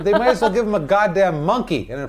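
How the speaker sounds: high, loud, incredulous outrage; angry rant. Real, not acted. Co-host raging at the movie's slide whistle, angry rant. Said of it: "Jesus, I'm so angry".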